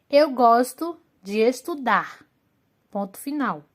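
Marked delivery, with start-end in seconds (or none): 0.1-2.2 example read aloud. Shown as a demonstration. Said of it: "nós temos um exemplo".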